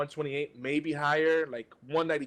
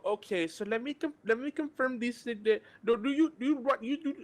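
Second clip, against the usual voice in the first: higher, confused agent stumbling through a confirmation; imitating support agent; 7 semitones higher than usual. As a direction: mimic the call-centre guy fumbling the script. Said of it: "I can do the voice".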